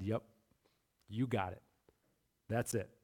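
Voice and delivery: soft, low, easygoing affirmation; gently confirm, no fuss; quiet casual Jesus. Retold or imitated. Pastor voicing Jesus calmly telling the thief he got it. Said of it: "and Jesus said".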